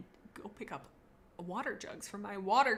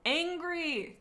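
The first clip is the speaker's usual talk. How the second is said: P=A; higher exaggerated quote; 8 semitones higher, 5 dB louder, slower than usual. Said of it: "says Dunsaman".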